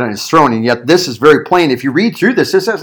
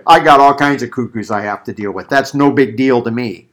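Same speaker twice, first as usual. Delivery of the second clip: offhand, lower shrug-off; dismissive; 3 semitones lower than usual. Retold or imitated. Pilate brushing off the accusers, dismissive. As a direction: wave it away like an unbothered official. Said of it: "Pilate would have".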